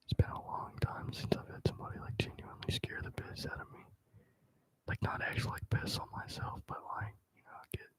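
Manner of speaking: chatty whisper into a mic. Real, not acted. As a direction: whisper to the people in the comments. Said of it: "I'm just whispering in a mic".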